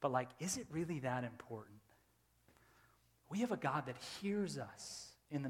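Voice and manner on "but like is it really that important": low, soft, settled self-talk; hushed, low, retold calming thought; calmed down. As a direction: reason quietly, talking yourself down. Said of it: "he started to calm me down".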